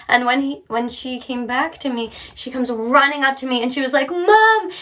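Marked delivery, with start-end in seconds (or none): 4.1-4.7 higher, louder happy shout; excited child call. Retold or imitated. Little girl running to mom, calling out. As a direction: call out to mom mid-run.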